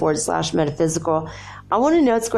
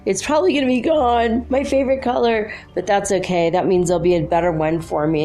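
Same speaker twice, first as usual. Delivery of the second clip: excited inner monologue; 3 semitones higher than usual. Retold or imitated. Inner monologue about bathing suit.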